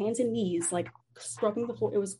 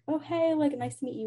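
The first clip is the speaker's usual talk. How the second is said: imitating a sweet, higher-pitched greeting; put-on niceness; 5 semitones higher than usual. Roommate meeting new people, put-on nice. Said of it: "she has, like, a nice, like, she comes off like".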